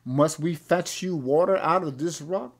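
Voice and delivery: loud opening rebuke; angry Moses. Retold or imitated. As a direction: snap at the rebels. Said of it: "But Moses said".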